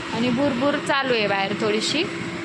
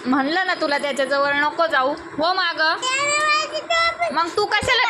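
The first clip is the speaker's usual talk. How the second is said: scolding; 7 semitones higher, 4 dB louder than usual. Real, not acted. Mother scolds child near brother.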